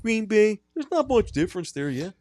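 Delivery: very high, creepy Wisconsin voice; chirpy high killer voice, staying in character; Ed Gein character. Acted. Host staying in his killer character for the cohosts.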